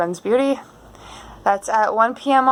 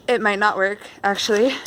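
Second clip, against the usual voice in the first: out of breath. Real, not acted. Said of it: "Sorry, I'm out of breath".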